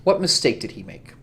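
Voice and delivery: slow, cold reproach from the prince; scolding prince. Acted. The prince lectures the young kindred, slow and stern. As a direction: lean on each word like a disappointed ruler.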